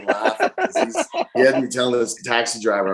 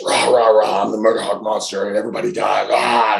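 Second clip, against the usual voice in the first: mock monster roar, somewhat raised voice; loud strong roar. Wrestler roaring at Japanese cameras after the match, loud and strong. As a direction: roar it out like a post-match rant. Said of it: "just very loud, very strong".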